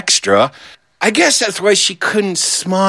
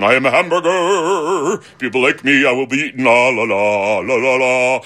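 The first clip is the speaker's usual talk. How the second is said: a cheerful, self-satisfied hamburger voice that breaks into a sing-song la la; cocky little hamburger singing its own praises; smug hamburger; 3 semitones lower than usual. Pretend. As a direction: play the happy food everyone loves, humming to itself. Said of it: "sitting on the plate going".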